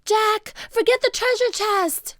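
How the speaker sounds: put-on high, loud scolding girl; high loud urgent plea; urgent cry. A narrator's reading. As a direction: make him drop the chest. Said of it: "cried Annie".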